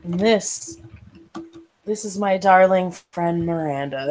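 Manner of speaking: put-on heavy Irish accent. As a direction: lay the Irish accent on thick. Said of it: "You notice a very heavy Irish accent".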